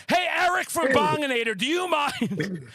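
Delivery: calling out. Pretend. Calling out to a person.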